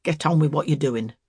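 put-on old man protesting mildly; mildly dismissive old man; vain protest. A narrator's reading. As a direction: protest it away, to no avail. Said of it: "vainly protesting".

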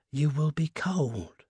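slow, gentle concern; tender. A narrator's reading. Old husband worried for his wife in the night, tenderly. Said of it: "he said tenderly".

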